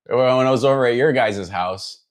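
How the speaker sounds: exaggerated Chicago regional accent; strong South Side Chicago accent. Shown as a demonstration. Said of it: "very strong, like, South Side Chicago accent".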